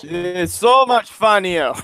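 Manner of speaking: slow, drawn-out mock Russian accent; playful Russian accent. Agreeing with teammate that accents are funnier, playful Russian accent. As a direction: ham up a Russian accent slowly. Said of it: "when you can use a Russian accent".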